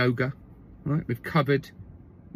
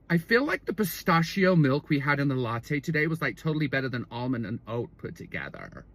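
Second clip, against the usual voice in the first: put-on croaky Californian girlfriend. Girlfriend telling him about yoga, trailing croaky voice. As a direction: start normally, then fade into creak. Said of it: "run on and speak like this".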